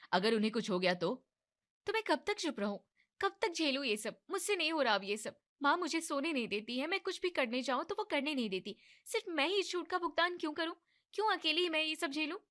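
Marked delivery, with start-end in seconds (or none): 1.9-12.4 angry outburst. Acted. Wife's angry outburst at husband.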